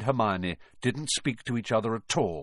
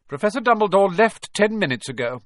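high, loud, frosty statement; cold; 10 semitones higher, 7 dB louder than usual. A narrator's reading. McGonagall refuses Harry's request, coldly. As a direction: shut them down coldly. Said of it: "she said coldly".

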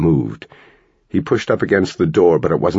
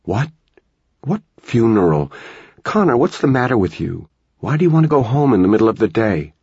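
higher, quicker worried mom voice; a mother rattled and rushing her questions; anxious mom firing questions fast; alarmed mother; 5 semitones higher than usual. Acted.

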